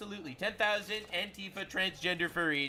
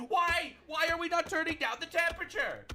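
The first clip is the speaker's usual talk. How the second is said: mock scream; 11 semitones higher than usual. Mocking liberals screaming in their house. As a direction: shriek it like a panicked liberal at home.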